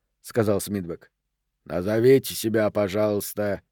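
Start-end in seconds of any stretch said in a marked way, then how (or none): 1.6-3.6 flat monotone doorman, Queens-free; bored, toneless, no inflection. Acted. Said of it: "монотонно произнёс швейцар". (монотонным голосом)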